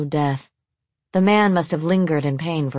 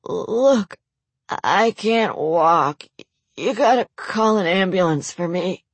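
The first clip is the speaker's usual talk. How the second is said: injured man; 2 semitones higher, slower than usual. Acted. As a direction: beg for help through pain.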